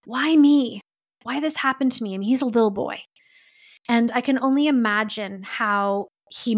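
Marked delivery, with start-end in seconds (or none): 0.0-2.1 pleading. Retold or imitated. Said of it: "he starts to plead with God".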